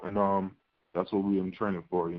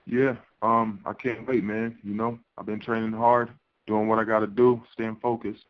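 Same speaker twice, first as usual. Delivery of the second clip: on speakerphone. Real, not acted. Fighter dialed into press call.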